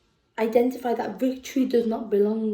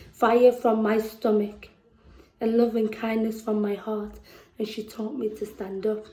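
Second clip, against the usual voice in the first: measured, heartfelt spoken-word reading; spoken-word poet reading about her city; poem recital. Acted. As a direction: perform the poem to the room, letting lines land.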